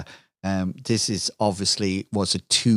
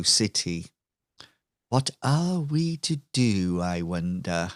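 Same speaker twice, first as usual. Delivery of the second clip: smug villain Lucille. Acted. Villain Lucille taunts Jack on screen, lightly voiced smug villainess. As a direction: tease the hero with mock concern.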